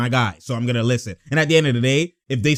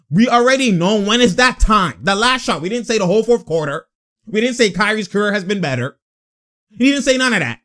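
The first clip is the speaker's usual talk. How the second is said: heated raised rant; 5 semitones higher, 3 dB louder than usual. Real, not acted. Heated rant at Bron fans.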